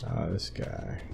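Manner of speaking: normal talking voice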